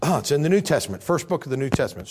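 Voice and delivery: talking through hiccups. Real, not acted. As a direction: speak with the hiccups. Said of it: "Sorry, got the hiccups".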